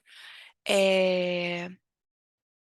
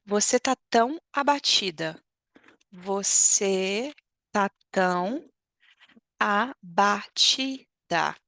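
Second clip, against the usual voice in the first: concerned remark; slower than usual. Acted.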